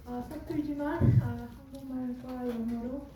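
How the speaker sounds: halting Korean with Korean American accent. Real, not acted. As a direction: Korean spoken by a Korean American heritage speaker. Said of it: "저의 한국말이 좀, 아, 서툴지만".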